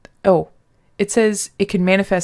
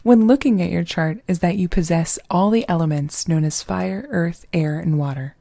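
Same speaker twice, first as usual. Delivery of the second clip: sexy voice; 3 dB louder than usual. Pretend. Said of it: "read it in my sexy voice".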